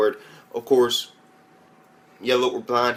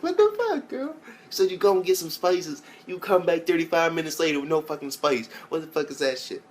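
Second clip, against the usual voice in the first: starts with a very high squeal, then settles into a higher pitched rant; hammed-up outrage that fades toward the end; mock angry rant; 5 semitones higher than usual. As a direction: play-act scolding the girl who never brought the spices. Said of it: "That's how I've been out there".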